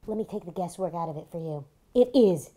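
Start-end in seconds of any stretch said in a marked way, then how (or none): 1.9-2.5 angry. Acted. Wife hammering the point.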